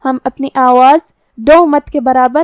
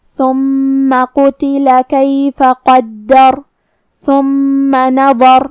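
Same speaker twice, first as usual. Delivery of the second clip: very slow, drawn-out melodic tajweed; Quran recitation; much slower than usual. Shown as a demonstration. Teacher reciting the verse for students, slow melodic tajweed. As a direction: chant each word long and measured.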